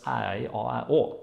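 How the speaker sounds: a string of Northern Norwegian vowels as an answer; Northern Norwegian dialect. Shown as a demonstration. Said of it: "this is firstly Northern Norwegian dialect".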